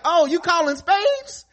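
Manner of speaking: high, slow mock indignation; hammed-up shock, high and slow; mock outrage. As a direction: drag it out, offended and high. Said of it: "Niggas like".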